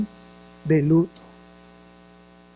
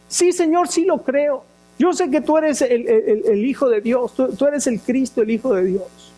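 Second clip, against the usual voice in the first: eager Martha; 5 semitones higher than usual. Retold or imitated. Preacher voices Martha's fervent answer.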